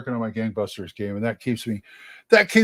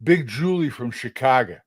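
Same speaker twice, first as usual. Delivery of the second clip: put-on light Chicago accent on a stage role; name the role with a Midwest-tinged New York twang. Actor recalling his Guys and Dolls part, Chicago accent. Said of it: "who was I playing".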